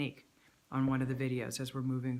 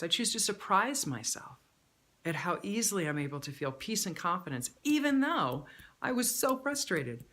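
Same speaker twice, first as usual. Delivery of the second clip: 1 lifted affirmation; 4 semitones higher, 4 dB louder than usual. Shown as a demonstration. Uplifting affirmation climax.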